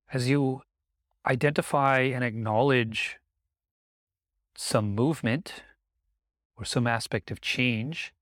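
unhurried meditation guidance with long pauses; guided meditation. Acted. Teacher guiding listeners to notice the breath, guided meditation. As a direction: gently lead the listener's attention, leaving space between phrases.

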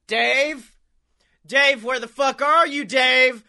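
demanding cat voice. Retold or imitated. Garfield-style cat calling out.

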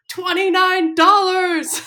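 high laughing mock scream; mom screaming. Mom yelling into the phone about cheap shoes, screaming. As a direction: shriek it like an outraged mom. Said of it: "And then the mom screams".

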